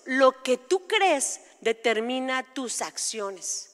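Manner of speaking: slow, weighted "Lo que tú crees", then a pause; "tú crees" leaned on, the rest measured and deliberate; emphatic. Real, not acted. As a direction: spell out "Lo que tú crees determina tus acciones" slowly, phrase by phrase. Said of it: "quiero de verdad hacer énfasis en esto".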